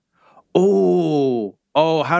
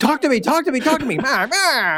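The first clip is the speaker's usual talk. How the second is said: high insistent goat voice; 10 semitones higher, faster than usual. Acted. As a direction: demand it like a bleating goat. Goat demands an answer.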